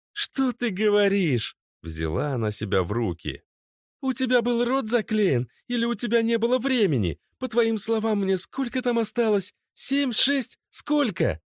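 very high, biting; mock his silence; sarcastic angry girlfriend. A narrator's reading. Natasha mocks Oleg's hidden prophecy, angrily.

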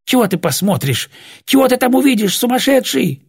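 high, strained protest; choked, frantic rasp. A narrator's reading. Old woman stops him looking in the box, strained. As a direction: scold in panic through a tight throat. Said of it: "сипела Глафира".

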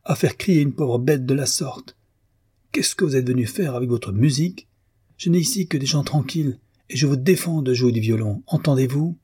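the landlady bursts in, livid; landlady pale with fury, crying out; furious outcry. Acted. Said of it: "blême de fureur".

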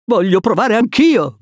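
high-pitched eager exclamation; excited high voice; eager cry. A narrator's reading. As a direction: cry out, keen to join in. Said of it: "gridò".

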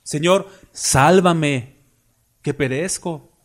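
very slow, stretched-out imitated plea; drowning man's plea. Sinking Pedro begging the Lord to save him, slow imitated plea. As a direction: draw out each word of the cry for rescue. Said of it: "cuando se estaba hundiendo".

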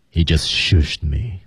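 slow, drawn-out character take; imagined Lion King voice. Acted. Teacher imagines a Lion King character saying it, slow. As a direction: stretch it out at ordinary pitch. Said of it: "他可能是这么说的".

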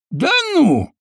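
high, drawn-out "Да ну"; a villain's amused drawl; drawn-out mock disbelief. A narrator's reading. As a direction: stretch it out, mocking. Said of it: "протянул Мосфет".

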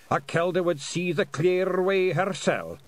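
put-on proud old piper refusing; stubborn old Scot. A narrator's reading. William scolding.

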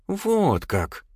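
indignant. A narrator's reading. Elsa, outraged at the thief's confession, indignant. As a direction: sound shocked and outraged. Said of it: "возмущённо произнесла Эльза".

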